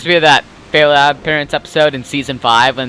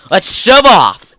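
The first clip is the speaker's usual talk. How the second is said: pirate voice; 4 semitones higher, 4 dB louder, slower than usual. Acted. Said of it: "pirate voice".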